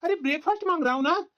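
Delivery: annoyed husband's complaint; exasperated. Acted. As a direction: nag impatiently at someone who came back. Husband annoyed that wife came back.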